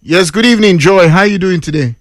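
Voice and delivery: polished English phone greeting, calm and measured. Pretend. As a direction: put on proper English for the caller. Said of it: "you just watch the English wey I go speak".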